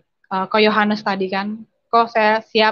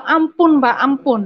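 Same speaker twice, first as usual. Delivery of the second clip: begging for mercy; 4 semitones higher, 4 dB louder, slower than usual. Retold or imitated. Beaten by father, begging mercy.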